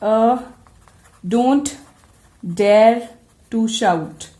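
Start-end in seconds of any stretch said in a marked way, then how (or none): 1.2-4.3 slow fall-rise on shout, stern warning; a slow stern warning with a dip and lift; falling rising tone on a warning. Shown as a demonstration. Teacher demonstrating a warning with fall-rise. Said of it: "Such sentences like".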